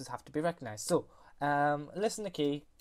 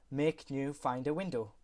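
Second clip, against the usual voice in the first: command voice. Shown as a demonstration. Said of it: "I will go press escape".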